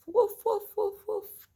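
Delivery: put-on high, loud playful woof for a child; dog barking. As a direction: bark like a cheerful little dog. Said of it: "another woof".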